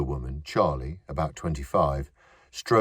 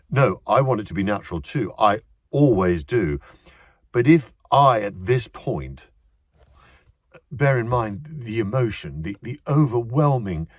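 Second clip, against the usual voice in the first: insistent actor; 6 semitones higher, 5 dB louder than usual. A narrator's reading. Actor pleads with director.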